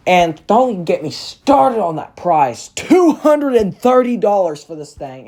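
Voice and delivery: indignant. Real, not acted. Reviewer complaining to viewers about the price, indignant. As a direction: gripe with emphatic disbelief.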